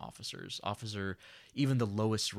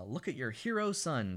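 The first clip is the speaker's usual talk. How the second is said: stepmother voice; 4 semitones higher than usual. Retold or imitated. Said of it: "she says".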